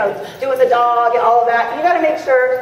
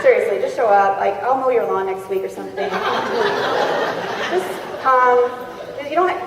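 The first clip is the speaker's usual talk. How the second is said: desperate begging friend; 2 semitones lower than usual. Retold or imitated. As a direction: beg sheepishly for someone to show up. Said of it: "one of your friends called you up and said".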